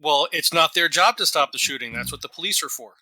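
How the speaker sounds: dry, flat sarcasm; deadpan. Shown as a demonstration. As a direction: say it bone dry, straight-faced. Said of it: "it was a little too deadpan".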